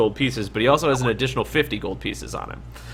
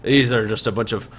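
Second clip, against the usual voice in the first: Shorty's voice; 4 dB louder than usual. Acted. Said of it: "He goes".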